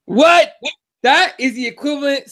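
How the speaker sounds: loud, high, rising disbelief; incredulous. Real, not acted. Podcaster reacts to the management excuse, incredulous outburst. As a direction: burst out in disbelief.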